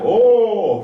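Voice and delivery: oh like you're surprised. Shown as a demonstration. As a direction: gasp out oh as if caught off guard. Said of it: "like you're surprised".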